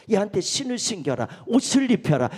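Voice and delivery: loud, forceful declaration building up; preacher voicing a father's firm orders; emphatic fatherly command. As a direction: proclaim it with swelling volume.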